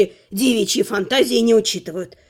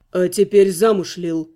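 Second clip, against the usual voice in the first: joyless; 4 semitones lower than usual. Acted. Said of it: "без особой радости в голосе".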